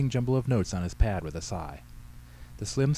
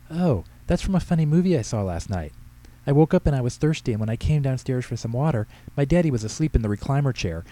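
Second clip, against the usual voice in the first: put-on higher, louder eager child voice; a four-year-old chattering excitedly; lightly voiced little girl telling her story; 5 semitones higher, 4 dB louder than usual.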